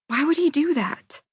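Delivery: high, pained question; mildly voiced grieving cohost; distraught question. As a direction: ask it in disbelief.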